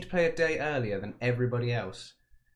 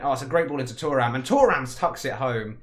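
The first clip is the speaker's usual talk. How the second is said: excited goal call; 3 semitones higher, 9 dB louder than usual. Real, not acted. Goal scored in the game.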